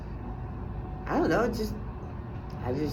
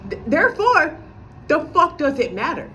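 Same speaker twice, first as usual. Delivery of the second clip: higher, louder mock of her boyfriend; mocking him; 5 semitones higher, 3 dB louder than usual. Vlogger parodying her boyfriend's dismissive phrase, higher and louder. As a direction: throw his line back with scorn. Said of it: "jargon I heard he likes to say".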